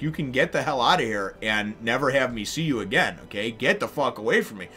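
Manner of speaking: building from firm to a loud furious yell; angry. Retold or imitated. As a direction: tell him off, rising to fury. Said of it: "And Sanji's like".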